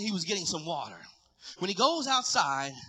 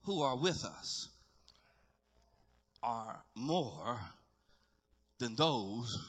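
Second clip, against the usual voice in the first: low, hushed, with long pauses; unhurried reassurance from someone barely awake; sleepy Elijah; 11 semitones lower, 8 dB quieter, slower than usual. Acted. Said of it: "wiping sleep from his eye".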